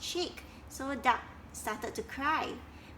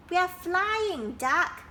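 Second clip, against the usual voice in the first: higher, louder surprised reply; 7 semitones higher, 5 dB louder, slower than usual. Acted. Dragonflies answering bossy Duck, surprised and higher. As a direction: protest with innocent surprise. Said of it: "in surprise".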